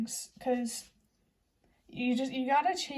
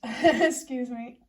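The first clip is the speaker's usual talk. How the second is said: laughing excuse me; 5 dB louder, much slower than usual. Real, not acted. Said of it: "I'm not sorry for burping".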